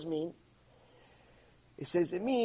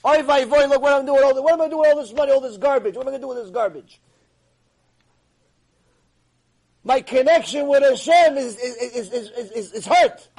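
loud, high anguished outcry, acted; imitated hysterical crying; 4 semitones higher, 7 dB louder than usual. Rabbi laments his connection with Hashem, acted loud wailing. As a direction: cry out in mock despair, stumbling at the end. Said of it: "starts hysterical crying".

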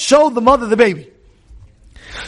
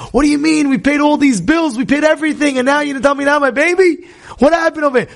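upset protest; 6 semitones higher, faster than usual. Retold or imitated. Couple protests losing the baby.

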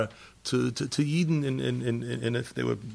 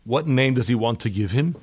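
normal talking voice

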